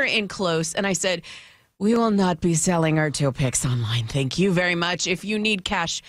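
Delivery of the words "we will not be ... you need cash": firm parent. Retold or imitated. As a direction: calmly lay down the rule to your child. Mother retells setting her child straight.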